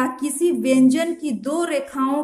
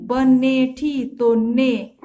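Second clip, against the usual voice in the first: slow stress on ने; 4 dB louder, much slower than usual. Shown as a demonstration. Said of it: "आपको ने लगाना है बनेठी".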